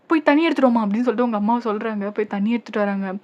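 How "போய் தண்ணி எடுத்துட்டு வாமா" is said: urgent plea. Acted. Urgent call to mother for water.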